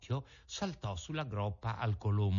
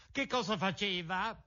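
put-on high, eager wooden-boy voice; eager puppet; 8 semitones higher than usual. A narrator's reading. Pinocchio telling the pigeon who he is, high and eager. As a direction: proudly claim your name.

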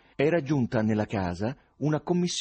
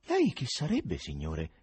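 un accenno di paura, voce che sale poi cala; spaventato; 3 semitones lower, slower than usual. Acted. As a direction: domanda timorosa, appena accennata. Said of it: "chiese spaventato". (Nikanor chiede spaventato allo sconosciuto, timore lieve)

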